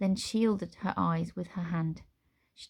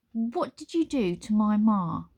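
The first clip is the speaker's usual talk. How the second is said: growled; 3 semitones higher, 4 dB louder than usual. Acted. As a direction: growl the question. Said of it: "Nine growled".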